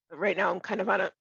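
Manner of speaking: hoarse, voice giving out; losing voice. Real, not acted. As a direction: speak through a failing voice. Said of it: "I'm losing my voice".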